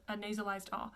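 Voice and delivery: ordinary delivery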